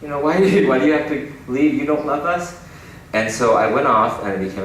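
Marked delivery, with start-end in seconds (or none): 0.0-2.6 high pleading mother's voice; guilt-trip like a hurt mother; hurt immigrant mom. Retold or imitated. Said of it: "she was like".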